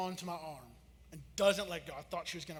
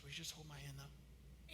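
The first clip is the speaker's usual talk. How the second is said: small scared voice; 5 semitones lower, 18 dB quieter than usual. Retold or imitated. Scared daughter at the top.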